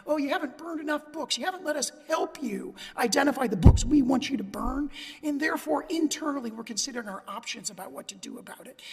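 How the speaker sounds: mock veiled threat, leaning harder as it goes; implied threat. Lawyer acting out officials' emails to booksellers, implied threat. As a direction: imitate officials leaning on someone, pointed and emphatic. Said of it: "emails that contained implied threatening communications".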